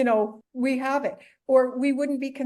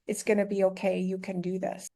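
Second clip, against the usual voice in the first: reassuring self-talk; 4 semitones lower, 5 dB quieter than usual. Retold or imitated. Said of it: "I wish I would have said to myself".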